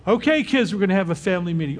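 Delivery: put-on brisk, upbeat parent calling the kids; parent announcing a meeting. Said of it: "we'd say".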